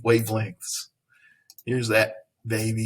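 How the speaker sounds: usual speaking voice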